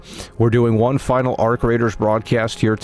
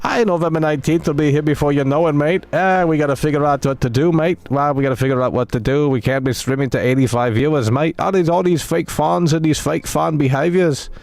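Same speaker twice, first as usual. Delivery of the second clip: mock British accent. Streamer teasing his chat in a mock British accent. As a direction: play a cheeky British lad with a mock accent, pitched up. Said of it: "they get mad that I'm making the voice".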